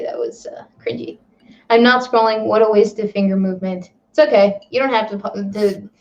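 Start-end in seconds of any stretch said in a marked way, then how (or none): 0.0-1.2 whispered, sheepish apology; embarrassed whisper. Real, not acted. Streamer apologises for her bad joke in a whisper.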